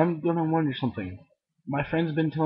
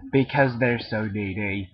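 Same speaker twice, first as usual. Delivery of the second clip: Caboose voice; slower than usual. Acted. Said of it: "Caboose is lying again".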